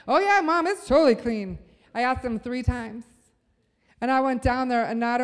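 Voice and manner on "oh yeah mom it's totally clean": put-on higher, louder kid brushing Mom off; imitated young son. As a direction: mimic a child's breezy assurance, starting high. Son insists room is clean, voiced.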